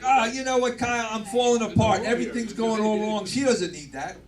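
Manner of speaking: lightly voiced panicking old dad; mock distraught dad. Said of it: "he's like".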